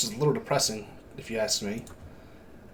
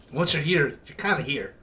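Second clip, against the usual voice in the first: NPC voice; 3 semitones higher than usual. Acted.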